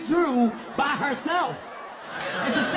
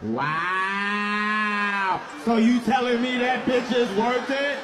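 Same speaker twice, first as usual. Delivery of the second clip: mock angry girlfriend; slower than usual. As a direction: answer yourself and get madder. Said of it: "This is what that conversation looks like".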